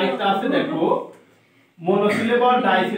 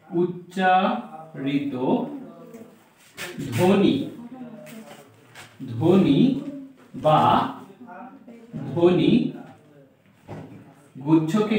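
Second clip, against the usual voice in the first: "উচ্চারিত" slowly split in two with a pause; drawn-out, broken "উচ্চারিত"; slow dictation; slower than usual. Shown as a demonstration. Teacher dictating word by word.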